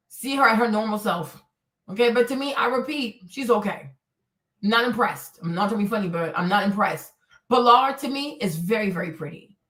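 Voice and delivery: normal talking voice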